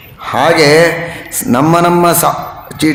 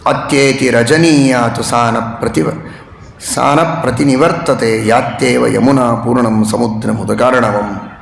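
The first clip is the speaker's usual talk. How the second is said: lower, measured Sanskrit verse chant; shloka recitation; 3 semitones lower than usual. Acted. Preacher reciting Rama's verse to the listeners, chanted. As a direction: intone the verse gravely.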